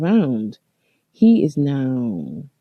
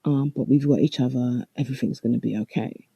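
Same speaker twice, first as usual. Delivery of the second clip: soft, gentle comfort; a hint of a kind shop owner reassuring; 4 dB quieter than usual. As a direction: soothe a frightened stranger. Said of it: "she was so sweet".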